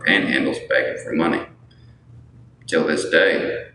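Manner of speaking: put-on light joking Southern accent. Streamer telling viewers he hates working, put-on Southern accent. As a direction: play it as a casual Southern good old boy. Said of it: "was talking a little bit Southern".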